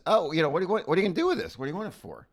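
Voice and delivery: high, prying teller voice; nosy bank teller. Pretend. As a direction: play the suspicious bank teller. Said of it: "your teller says".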